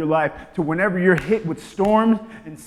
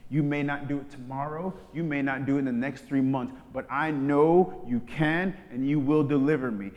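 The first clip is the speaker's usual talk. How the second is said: expectant prayer; 4 semitones lower than usual. Shown as a demonstration. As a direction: speak it as settled fact. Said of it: "spirit of expectation".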